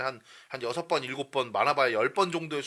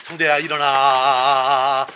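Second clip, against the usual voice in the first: loud, drawn-out wake-up call; waking someone up; 11 dB louder, much slower than usual. Shown as a demonstration. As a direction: shout to wake a sleeper. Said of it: "그 자는 사람 깨우는 느낌처럼".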